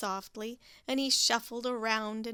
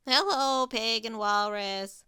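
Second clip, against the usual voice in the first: 1 mumbling Goose; 5 dB louder than usual. Acted. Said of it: "mumbled Goose".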